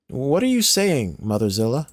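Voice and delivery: put-on high, pleading young girl; girl's voice. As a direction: beg for her friend, earnest. Girl alarmed.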